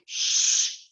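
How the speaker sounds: unvoiced hush; sharp little shush. Hushing his sister.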